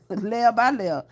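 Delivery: slow, drawn out. Shown as a demonstration.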